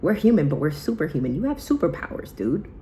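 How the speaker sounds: hyped pep talk. Retold or imitated. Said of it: "And I told her, I said".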